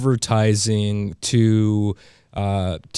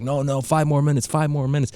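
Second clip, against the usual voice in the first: put-on whining child; 4 semitones higher, faster than usual. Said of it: "a temper tantrum".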